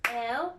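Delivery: "Elephant" in three spaced beats to clap on; clapped syllables. Shown as a demonstration. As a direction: count out el, e, phant for "Elephant". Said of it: "Let's clap".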